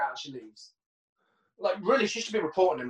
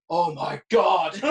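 mock gushing mum; 3 dB louder, much slower than usual. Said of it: "She's like".

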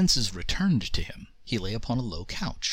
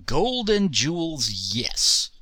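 booming, slow roar; roaring genie; 5 semitones higher, 3 dB louder, slower than usual. Acted. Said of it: "roared the Jinn".

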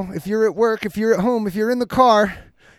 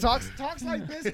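imitating mumble; 9 dB quieter, slower than usual. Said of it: "Matt either has the mic".

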